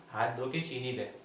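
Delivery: lightly voiced slow little kid; a hint of a child, taking its time; innocent child. Child customer answering the shopkeeper, lightly put-on innocent voice. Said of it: "वो बच्चा बहुत ही मासूम था".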